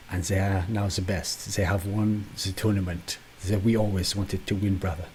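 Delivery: bad French accent, lightly done; hammed-up French accent. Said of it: "a French accent".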